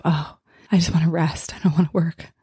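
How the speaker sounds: tired whisper, wanting to rest; whispered complaint. Retold or imitated. Her habitual thought about rest versus work, whispered.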